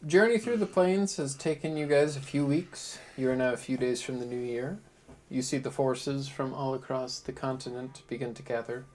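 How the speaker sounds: scene narration. A narrator's reading. DM sets the scene.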